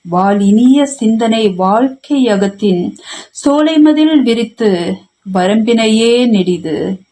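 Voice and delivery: measured verse reading, held notes on line ends; poem recitation. Acted. Poet reciting a venba to an online poetry gathering, formal recitation.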